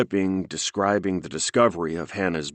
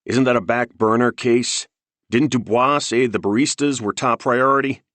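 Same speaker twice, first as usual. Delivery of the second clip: sharp, louder irritated retort; snapping; 6 semitones higher, 5 dB louder than usual. A narrator's reading. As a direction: snap back, stressed and annoyed. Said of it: "made Beans snap".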